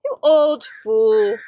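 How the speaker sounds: scolding. Acted. Giantess scolds giant.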